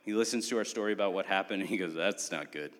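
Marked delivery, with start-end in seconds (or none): 1.9-2.7 low, quiet mock-mechanic verdict; joyless stern mechanic. Mechanic delivers bad news to customers, lightly voiced joyless deadpan. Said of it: "stern face, and he's just like".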